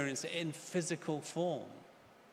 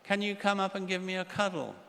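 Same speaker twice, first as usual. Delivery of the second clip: put-on high little child's voice calling to her mummy; frightened little girl; 8 semitones higher than usual. Little girl calls downstairs to mummy, high frightened child voice. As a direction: play a scared five-year-old calling for a cuddle. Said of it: "she calls down to the stairs to her mummy".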